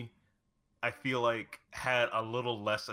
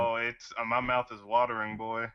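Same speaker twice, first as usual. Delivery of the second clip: excited anime fan; 4 dB louder than usual. Real, not acted. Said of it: "I'm fucking thirsty".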